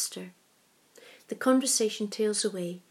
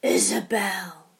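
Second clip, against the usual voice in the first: with an edge; 4 dB louder, slower than usual. A narrator's reading. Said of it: "with an edge to his voice".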